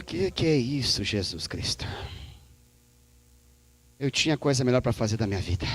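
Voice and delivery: low, soft, fast disgruntled mutter; low grumbling complaint. Acted. Profeta reclama com Deus no vale, resmungo baixo. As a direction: grumble like you're stuck here.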